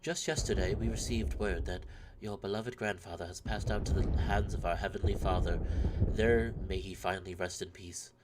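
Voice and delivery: measured, formal letter reading; understated, even recital of bad news; letter read aloud. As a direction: read a solemn family letter with mild gravity.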